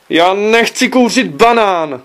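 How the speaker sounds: high, loud and slow whiny shriek; son's shriek. Acted. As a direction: wail it out in horror like a cornered kid. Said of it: "zaječel syn". (vysoký, pomalý, hlasitý jekot syna)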